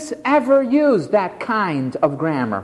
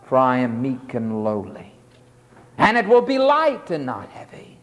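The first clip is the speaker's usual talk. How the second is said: calm invitation. Shown as a demonstration. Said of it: "Or you could say".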